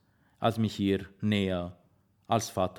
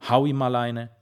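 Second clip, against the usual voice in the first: louder, higher impatient command; impatient order; 4 semitones higher, 6 dB louder than usual. A narrator's reading. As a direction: bark it at Ramina, impatient. Father demands baby be slapped. (Vater befiehlt Ramina ungeduldig und lauter)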